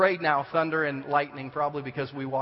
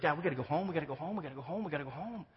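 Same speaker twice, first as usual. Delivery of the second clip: put-on scared kid begging; 6 dB quieter, faster than usual. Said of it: "Christian is just".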